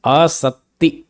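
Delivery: आसक्ति spaced out slowly, long first vowel, doubled t; careful pronunciation. Shown as a demonstration. Teacher introducing the third term, slowly sounded out. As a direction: draw out आसक्ति syllable by syllable. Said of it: "क नहीं बोलना".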